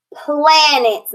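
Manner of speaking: "Planets" as PLAN-ets with a short A; correct pronunciation. Shown as a demonstration. Teacher modelling the word for pupils, short-A "Planets". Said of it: "How do we correctly read this word?".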